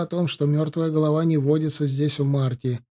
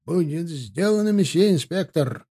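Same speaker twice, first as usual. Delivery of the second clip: barked reply; 3 semitones higher than usual. Acted. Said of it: "гаркнул возница".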